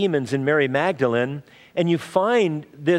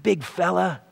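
put-on cooing to a toddler; 3 semitones higher than usual. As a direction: gently coo at a little child held in your arms. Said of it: "take 'em in your arms and go".

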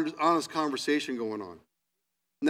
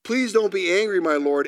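raised, imploring plea; pleading; 4 semitones higher, 4 dB louder than usual. Acted. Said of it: "Abraham pleaded".

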